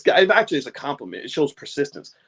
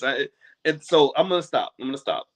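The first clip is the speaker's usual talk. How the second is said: choked up; 5 semitones lower than usual. Real, not acted. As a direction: pull back from real emotion. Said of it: "I found myself getting choked up".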